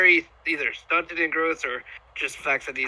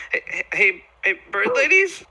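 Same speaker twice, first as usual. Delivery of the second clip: higher, louder questioning call at the end; 4 semitones higher, 4 dB louder than usual. Acted. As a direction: call over to strangers, voice jumping up. Owl approaches, calling out to bird people.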